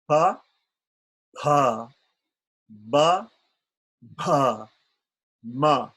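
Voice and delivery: pa, pa, ba, ba, ma each popped hard and loud off the lips; overemphasized labials. Shown as a demonstration. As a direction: exaggerate every lip sound with long gaps. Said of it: "I'm going to overemphasize".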